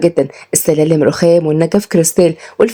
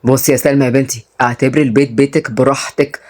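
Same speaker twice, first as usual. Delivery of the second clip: lower-pitched fatherly man, backing her; reassuring father figure; 4 semitones lower than usual. Acted. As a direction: give a trusted employee full licence. Voices Fouad reassuring Salma. (أب بيطمن بصوت واطي)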